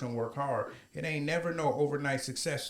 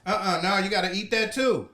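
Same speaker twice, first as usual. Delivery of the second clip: shouting; 4 semitones higher, 5 dB louder than usual. Real, not acted. Yelling at friend over challenge.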